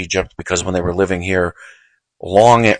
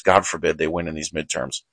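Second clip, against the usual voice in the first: quiet repeat; 2 semitones lower, 7 dB quieter than usual. Real, not acted. Host repeats his warning to listeners, softly. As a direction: mutter the repeat under the breath. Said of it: "and God forbid they win".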